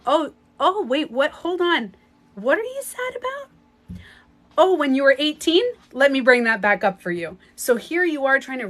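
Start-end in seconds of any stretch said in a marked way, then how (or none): 0.1-7.4 much higher, louder, teasing cosmic voice; mocking lion's gate voice. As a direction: play the lion's gate as a gleeful prankster dredging up old pain. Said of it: "It's like".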